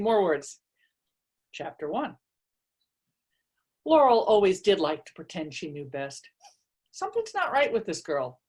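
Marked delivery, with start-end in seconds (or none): 1.5-6.3 story narration. A narrator's reading. Reads her novel aloud. 6.9-8.4 sniffy cat. Acted. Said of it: "the slender seal point sniffed".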